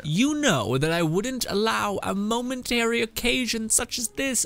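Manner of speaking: mock announcement read. Reading the game's update text aloud.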